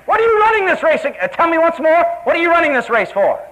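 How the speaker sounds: high, pressing inner question; the nagging inner voice. Retold or imitated. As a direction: needle them like a voice in their head. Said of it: "you just might hear the same question".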